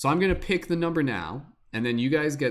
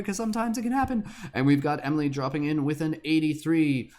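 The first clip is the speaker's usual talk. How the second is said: horse racing commentator; 3 semitones higher than usual. Acted. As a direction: race caller voice, higher and rushing. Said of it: "commentary, horse racing, announcing, auctioneer voice type thing".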